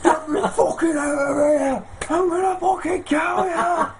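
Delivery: put-on high laughing shout of a kid locked in a van; laughing mock yell. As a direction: yell through laughter, hammed-up fury. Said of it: "he's banging on this van".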